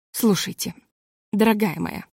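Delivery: sweet on top, furious beneath; a hint of strained kindness; calm and gentle. A narrator's reading. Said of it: "сказала она спокойно и даже ласково".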